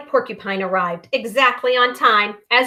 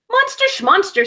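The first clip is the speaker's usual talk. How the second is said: scoffing; 9 semitones higher than usual. Acted. Impatient iguana scoffs.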